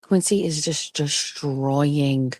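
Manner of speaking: usual speaking voice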